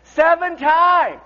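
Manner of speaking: drawn out, high and slow; slow emphatic. Real, not acted. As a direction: land it slowly. Punchline answer.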